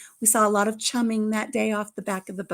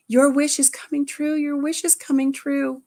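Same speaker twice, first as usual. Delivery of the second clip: higher, louder, excited cheer; imitated excitement; 5 semitones higher, 4 dB louder than usual. Family to granddaughter as the boat returns, excited. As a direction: cheer the child on. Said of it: "she's getting all excited. And we're like".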